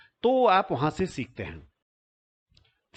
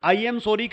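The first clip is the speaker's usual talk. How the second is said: "I am sorry" pushed out a bit louder and higher; mildly threatening tone; 5 semitones higher, 4 dB louder, much slower than usual. Shown as a demonstration. Teacher demos a wrong, threatening "I am sorry". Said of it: "ऐसी tone में बोलें जैसे धमका रहे हो".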